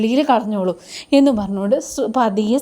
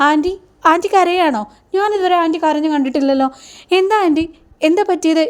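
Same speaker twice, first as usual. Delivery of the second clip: higher-pitched, mock-amazed questioning; surprised concern; 4 semitones higher than usual. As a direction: play a curious daughter-in-law, puzzled and higher. Daughter-in-law amazed aunt is crying. (അത്ഭുതം നടിച്ച് ഉയർന്ന സ്വരത്തിൽ)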